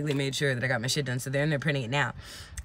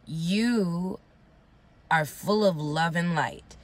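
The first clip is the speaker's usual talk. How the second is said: slow wise blessing; much slower than usual. Retold or imitated. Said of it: "she starts giving me bars".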